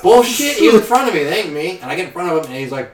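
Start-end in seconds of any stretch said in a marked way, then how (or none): 0.0-1.8 higher, louder scoffing; mock indignant denial. Driver to friend Josh, louder scoffing denial. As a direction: brush it off, sure it's not you. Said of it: "I was like".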